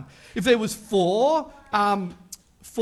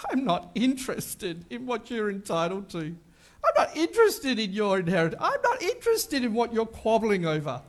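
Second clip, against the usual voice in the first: amused dismissal. Retold or imitated. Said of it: "This is Jesus' way of saying".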